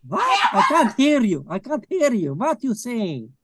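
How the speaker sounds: chancellor character. Acted. Skit, chancellor can't hear.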